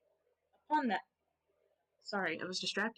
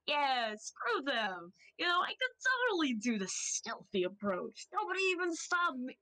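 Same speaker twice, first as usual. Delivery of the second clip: gloating rooster villain; 4 semitones higher than usual. Acted. Game master voices the rooster gloating to himself, smug and chuckling. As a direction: savor the boast, chuckling inwardly. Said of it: "he's chuckling to himself".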